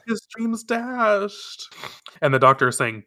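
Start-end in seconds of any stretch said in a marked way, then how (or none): 0.1-1.7 high, very slow wail; theatrical lament. Real, not acted. Reader lamenting Kakeru's dashed dreams, theatrical dismay. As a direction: draw it out in hammed-up dismay.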